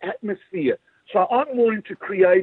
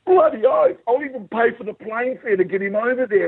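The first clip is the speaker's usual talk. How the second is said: excited; 6 semitones higher than usual. Retold or imitated. Eager reply in imagined scene.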